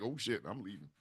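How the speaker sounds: very soft, low aside while slipping away; sneaking off. Acted. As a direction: mutter it on your way out the door. Bird ducks out, voice drops.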